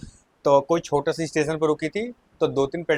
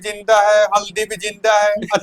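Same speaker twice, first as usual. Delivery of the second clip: laughing complaint; 4 semitones higher, 4 dB louder than usual. Retold or imitated.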